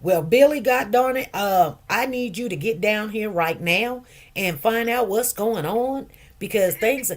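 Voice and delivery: put-on a light take on a folksy, un-stereotyped old man; imitating resident's voice. Nurse imitating a resident's surprising way of talking, lightly voiced. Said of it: "he talks like this".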